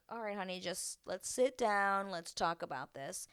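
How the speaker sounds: quiet reassuring honey voice; calming partner. Retold or imitated. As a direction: settle her down gently. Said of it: "kinda just being like".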